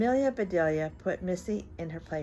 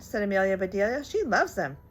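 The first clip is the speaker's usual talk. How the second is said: put-on reading to children. A narrator's reading. Reads picture book aloud.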